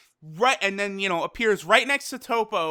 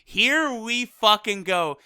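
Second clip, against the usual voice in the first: drawn-out, exasperated groan into words; slow, fed-up sigh of a line; exasperated reaction; slower than usual. Retold or imitated. Fan reacting to Gohan being teased, exasperated. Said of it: "And I'm like".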